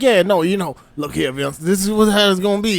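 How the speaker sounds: mock Southern accent. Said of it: "so fucking Southern debutante South".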